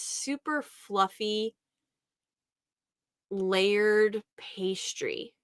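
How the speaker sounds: slow whisper, savoring the taste. Real, not acted. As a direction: whisper it like a delicious secret. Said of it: "savoring the memory".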